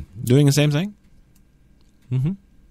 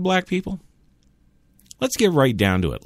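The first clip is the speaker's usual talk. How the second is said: ordinary delivery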